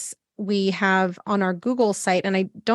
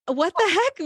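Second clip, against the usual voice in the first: much higher, mock-baffled exclamation; baffled surprise; 10 semitones higher than usual. Doctor mocking her own surprise at herself, high baffled squeak. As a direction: squeak it out in disbelief. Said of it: "I'm like".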